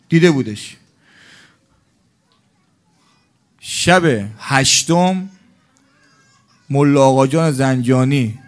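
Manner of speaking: loud, impassioned sermon storytelling; full-force preaching. Acted. Preacher tells the mourners the story, loud and impassioned. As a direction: drive the story home to the mourners.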